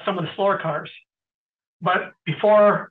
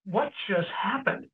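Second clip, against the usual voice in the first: soft, slowed, stunned question; retold hushed astonishment; hushed disbelief; 2 semitones higher, 6 dB quieter than usual. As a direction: say it quietly, as if stunned once the roar has gone. Stunned onlooker after car passes.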